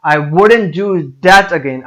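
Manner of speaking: slow line, hitting the word that; stress on THAT. Shown as a demonstration. Teacher demonstrating which word to stress, stress on THAT. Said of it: "that का word है इसको stress करेंगे".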